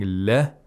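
"le" with the mouth spread horizontally; thin pronunciation. Shown as a demonstration. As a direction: say "le" thin, not heavy. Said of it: "We open the mouth horizontally".

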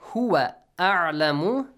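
"a'lamu" with a clear glottal onset, then a throaty ain; distinct hamza and ain. Shown as a demonstration. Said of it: "make sure you pronounce hamza and ain".

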